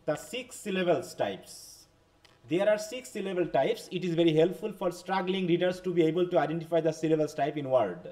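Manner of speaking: very slow, careful reading of a text; slow classroom reading aloud. Shown as a demonstration. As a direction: read it word by word for learners. Reads English text to class. (ক্লাসে ধীরে ধীরে ইংরেজি পাঠ)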